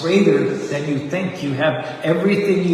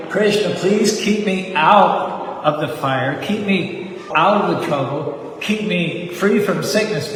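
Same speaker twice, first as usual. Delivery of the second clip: mock pleading prayer; 3 semitones higher, slower than usual. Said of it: "We're praying".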